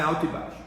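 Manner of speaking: "alto" lifted, "baixo" let fall; intonation demo. Shown as a demonstration. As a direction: raise "alto", then drop the pitch on "baixo". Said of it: "entonação é alto e baixo".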